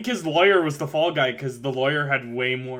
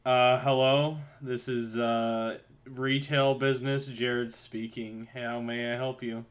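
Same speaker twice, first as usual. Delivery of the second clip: quiet, slow customer service phone answer; retail phone voice; 10 dB quieter, slower than usual. Pretend. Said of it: "call me now".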